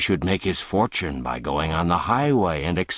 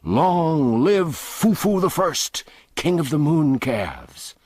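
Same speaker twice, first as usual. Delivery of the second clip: higher, louder, slow jeering shout; mocking roar; 9 semitones higher, 3 dB louder than usual. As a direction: roar it like a rowdy mob. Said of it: "a roaring shout went up".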